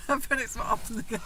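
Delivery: giggling as she repeats the line; laughing. Real, not acted. Wife laughs while repeating her own joke.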